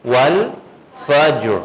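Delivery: والفجر recited very slowly, drawn out, with the final ر held silent; slow tajweed recitation of والفجر; Quran recitation. Shown as a demonstration. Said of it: "ساکن ہی رہنے دینا دونوں کو".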